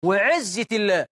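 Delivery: villagers' oath. Acted. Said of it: "الجماعة في الفلاحين يقول لك إيه".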